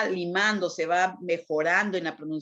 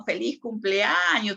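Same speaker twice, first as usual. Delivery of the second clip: "Feliz cumpleaños" sung out a little higher and slowly; joyful greeting; 4 semitones higher than usual. Shown as a demonstration. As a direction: greet a friend with happy warmth. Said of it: "en un momento de alegría". ("Feliz cumpleaños" con alegría)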